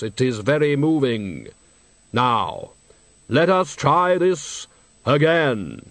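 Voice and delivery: slow, hollow, solemn deathly voice; Death's voice. Acted. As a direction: speak as grave, patient Death. Death speaks.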